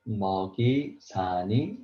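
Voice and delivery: 먹이 사니 read letter by letter; 먹이 사니 with the final sounds kept apart; wrong reading. Shown as a demonstration. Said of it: "If you read like this".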